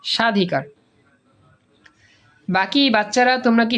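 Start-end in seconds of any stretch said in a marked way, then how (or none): 0.0-0.6 সাধিকার with the ব silent; correct pronunciation. Shown as a demonstration. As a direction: say সাধিকার with no b sound. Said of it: "সাবাধিকার না সাধিকার". (সাধিকার, ব অনুচ্চারিত)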